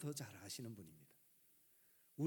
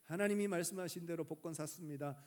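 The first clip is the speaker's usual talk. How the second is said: 기도하는 집사; 3 semitones higher, 5 dB louder than usual. Acted. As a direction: act out a deacon praying aloud. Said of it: "하나님 앞에 기도합니다". (하나님을 높고 크게 부르며 기도하듯)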